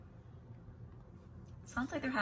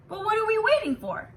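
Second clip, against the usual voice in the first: rallying cry; 12 semitones higher, 7 dB louder than usual. A narrator's reading. Principal rallying the school.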